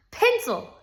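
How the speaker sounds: high, sharp snap; irritated teacher snapping a correction; snapped. A narrator's reading. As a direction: snap the word out, pitched high. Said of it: "snapped Missus Jules".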